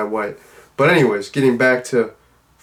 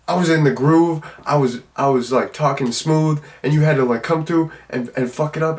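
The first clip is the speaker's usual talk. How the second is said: higher-pitched, put-on indignant complaint; mock pissed-off; 3 semitones higher than usual. Man complains his groove was interrupted, acted-out annoyance. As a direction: imitate an aggrieved man grumbling. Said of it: "like he's so pissed".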